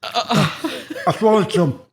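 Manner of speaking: talking through a sticky chew; chewing sticky toffee. Real, not acted. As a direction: mouth full, teeth stuck together. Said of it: "that's all stuck to my teeth".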